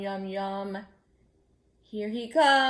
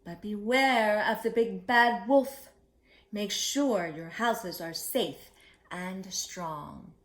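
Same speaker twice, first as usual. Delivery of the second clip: stern mother pig; 3 semitones higher, 4 dB louder than usual. Acted. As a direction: warn them like a firm mama. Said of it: "Mama Pig said".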